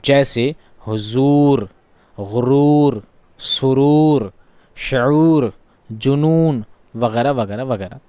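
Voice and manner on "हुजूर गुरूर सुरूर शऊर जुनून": "हुजूर, गुरूर, सुरूर" each with the oo drawn out; teacher's lingering oo in "शऊर" and "जुनून"; stretched long oo. Shown as a demonstration. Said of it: "इसे खींच कर पढ़ा जाता है".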